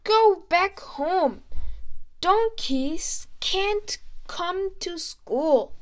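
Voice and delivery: loud angry teacher yelling; teacher's shout. Acted. Teacher Mister Clapper shouting the donkey away, loud. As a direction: bark it like a cross teacher. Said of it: "teacher, shout".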